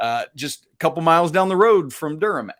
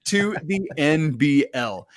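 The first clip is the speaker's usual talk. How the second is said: Australian accent attempt; slower than usual. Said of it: "I'm terrible at accents".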